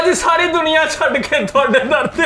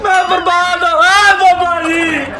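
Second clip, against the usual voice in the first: mock wailing; 3 semitones higher than usual. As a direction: wail ruin at the baba, barely keeping a straight face. Devotee wails, laughing through it. (ਹੱਸਦੇ ਹੋਏ ਨਕਲੀ ਵਿਲਾਪ)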